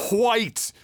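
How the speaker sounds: "white" with a breathy H before the W; emphasis on the H. Shown as a demonstration. Host joking about old Canadian folks, emphasized H in "white". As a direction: hit the H hard in "white", saying "hwite". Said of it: "the emphasis on that H in there".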